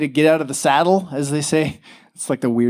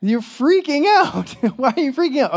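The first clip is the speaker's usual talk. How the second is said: laughing tease; 10 semitones higher than usual. Real, not acted. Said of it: "I'm laughing at you right now".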